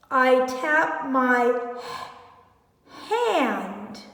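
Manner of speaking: I tap my hand read slowly word by word; slow model reading. Shown as a demonstration. Teacher reading the sentence slowly for children to copy. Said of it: "You read it".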